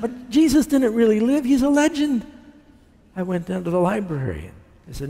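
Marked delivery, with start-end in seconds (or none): 0.0-2.3 sceptical challenge. Retold or imitated. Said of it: "I said".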